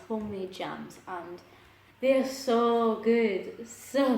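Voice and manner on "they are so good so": gushing. Real, not acted. Gushing about homemade jams.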